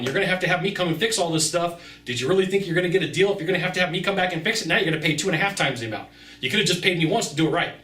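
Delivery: fast, pushy talking-to; blunt pushback. Retold or imitated. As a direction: rattle it off at a customer who went cheap. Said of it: "This is me. This is how I talk".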